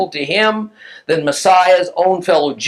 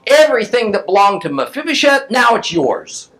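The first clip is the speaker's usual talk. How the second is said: mildly angry royal pronouncement, pitched up; raised-pitch decree with a touch of anger; angry king; 7 semitones higher than usual. Acted. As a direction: deliver the verdict as an upset king. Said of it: "Now the king's angry. He's pretty upset".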